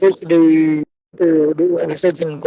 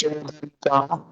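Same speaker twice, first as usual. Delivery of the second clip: call dropping out. Real, not acted. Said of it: "your voice is breaking".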